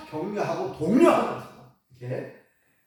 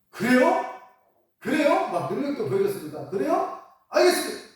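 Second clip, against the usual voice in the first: mock eager agreement; 6 semitones higher than usual. Moses mockingly agrees.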